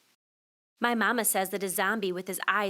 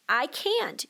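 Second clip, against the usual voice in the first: put-on whiny child; 4 semitones higher than usual. Kid refuses, mama insists.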